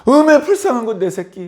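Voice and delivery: mild hammed-up compassion; tender pity. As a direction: comfort her like a grandparent. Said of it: "하면서 도와주셨을 텐데".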